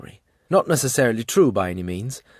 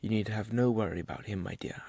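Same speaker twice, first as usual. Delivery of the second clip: softer, soothing reassurance; gently reassuring; 8 dB quieter than usual. A narrator's reading. Albert to dying woman about Hob, gently reassuring. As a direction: reassure softly, letting the words fade.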